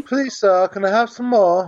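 put-on British orphan accent; amateur British accent. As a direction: quote it in a light mock-British accent. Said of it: "I just did it. It's better than yours".

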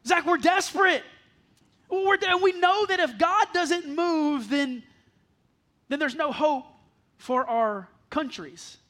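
Randy's words, preached big. Retold or imitated. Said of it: "That was the posture of his heart".

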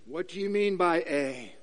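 lightly voiced dodging politician; evasive politician. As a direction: quibble over the term like a politician. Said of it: "politicians are good at this".

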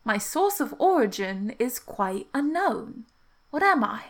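slow, measured riddle with lingering key words; riddle recital. Acted. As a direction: pose the riddle deliberately, word by word. Repeats riddle in character.

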